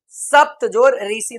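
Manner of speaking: सप्त जोड़ ऋषि spelled out slowly, part by part; slow teacher breakdown. Shown as a demonstration. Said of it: "उदाहरण".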